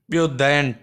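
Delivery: usual speaking voice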